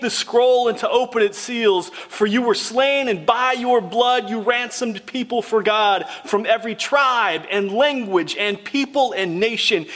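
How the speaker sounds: measured, solemn reading of scripture. Acted. Preacher reading Revelation aloud to the church, solemn.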